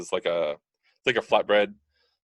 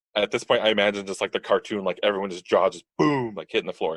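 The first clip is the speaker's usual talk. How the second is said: ordinary delivery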